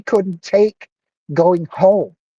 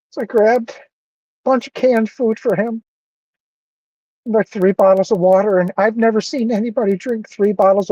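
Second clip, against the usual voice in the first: higher, emotional voice; getting emotional; 5 semitones higher than usual. Real, not acted. Apologizing to viewers after helping the man, emotional. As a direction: hold back real emotion as you talk. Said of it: "I'm getting emotional".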